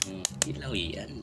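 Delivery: quiet teasing. Shown as a demonstration. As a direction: drawl "hilaw yan" softly and slowly. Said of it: "Papakita ko sa'yo". (mahina at mabagal na "hilaw yan")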